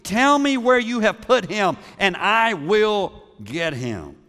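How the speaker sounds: anguished pleading of a grieving woman; distraught Mary pleading. Retold or imitated. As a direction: plead like a woman desperate for her lost Lord. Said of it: "she said".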